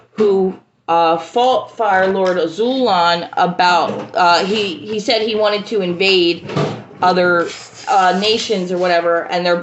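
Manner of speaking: stumbling over words, restarting; halting, tongue-tied explanation; real stuttering. Real, not acted. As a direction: lose the thread with filler-laden false starts. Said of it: "I'm stuttering so bad right now".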